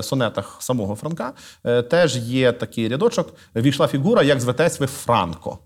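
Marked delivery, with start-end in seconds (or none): 3.6-5.6 verse line with Франко stressed FRAN-ko; stress on first syllable. Shown as a demonstration. Guest quoting the poet's sonnet as proof, Франко stressed on the first syllable. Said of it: "наголос був на першому складі".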